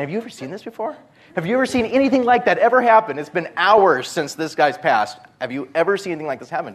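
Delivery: high, loud and fast, frantic; rattled cops firing questions; panicked questions. Retold or imitated. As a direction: cops panicking, pleading with Dan. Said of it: "now these guys are panicking".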